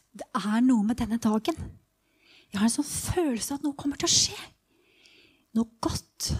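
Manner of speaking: hushed anticipation with bursts of excitement, long pauses; living the story, pausing between thoughts; dramatized first-person storytelling. Acted. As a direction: tell it in the moment as blind Bartimeus, haltingly. Dramatized first-person monologue as Bartimeus.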